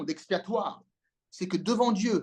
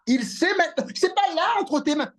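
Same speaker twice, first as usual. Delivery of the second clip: fervent exclamation; 9 semitones higher, 3 dB louder than usual. Real, not acted. Preacher exclaiming about revelation.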